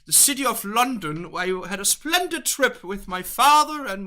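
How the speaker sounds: playful put-on English accent; British accent, pitch jumping up on reactions. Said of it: "Yeah, the English accent".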